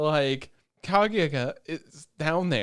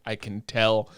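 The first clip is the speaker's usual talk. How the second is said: lower, sly knowing father; knowing dad voice; 6 semitones lower, slower than usual. Retold or imitated. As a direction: drop into a lightly voiced know-it-all dad. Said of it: "He's like".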